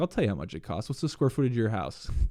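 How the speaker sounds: put-on authoritative tone. Retelling asking a homeowner about his house: retelling an authoritative question.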